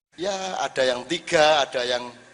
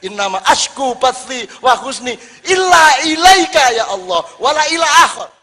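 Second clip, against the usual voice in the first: fervent prayer; 6 semitones higher, 9 dB louder than usual. Pretend. Devotee declares love to Allah in a loud Arabic prayer. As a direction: cry it out to God with full fervour.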